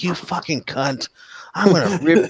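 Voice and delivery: a high, hammed-up enraged yell; furious yelling. Wounded fighter yelling after the one who fled, raging. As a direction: scream threats at the fleeing enemy. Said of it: "She's yelling".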